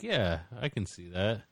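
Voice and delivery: dreamy murmur. Retold or imitated.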